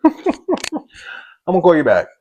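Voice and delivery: shouting, cutting her off hard; loud retort. Retold or imitated. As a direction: snap back loud and final. Repeating angry retort.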